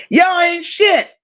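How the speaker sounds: slow playful scold, shit drawn out; mock scold. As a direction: tease the chat with a slow scolding.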